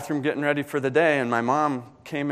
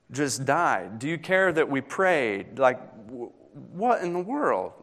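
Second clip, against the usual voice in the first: exasperated plea to God; 3 semitones higher than usual. Pretend. Grieving voice questioning God.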